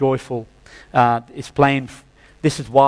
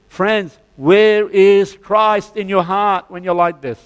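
rising preaching fervor; 6 semitones higher than usual. Real, not acted. Preacher rails against bitter churchgoers.

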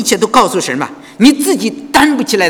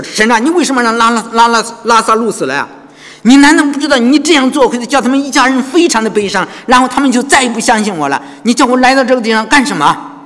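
complaining prayer; 5 semitones higher than usual. Retold or imitated. Imagined complaining prayer of Jesus.

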